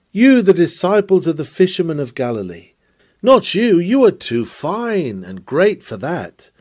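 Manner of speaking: mildly mocking reproach; a touch of scorn, stressing each charge; lightly acted taunt at proud churchgoers; accusing worldling. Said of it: "What then do worldlings say".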